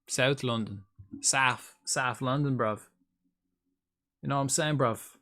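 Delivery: mock South London accent, "South" as "Saff". Shown as a demonstration. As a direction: put on a South London voice with bruv. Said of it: "mine specifically sounds like I'm from".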